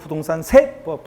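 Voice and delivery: slow "부동산 세법" with 세 punched loud. Shown as a demonstration. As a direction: hit 세 hard in "부동산 세법". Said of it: "이거 못하면 음치라고 했잖아요". ("부동산 세법"에서 "세"를 세게)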